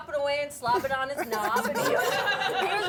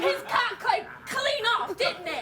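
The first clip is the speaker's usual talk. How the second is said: operator. Retold or imitated. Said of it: "She said".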